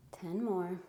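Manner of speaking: breathless workout talk; speaking between heavy breaths. Real, not acted. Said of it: "Super out of breath lately from my anemia".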